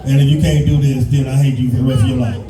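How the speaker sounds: a mock-solemn dad laying down the law; lightly voiced dad. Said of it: "My dad said".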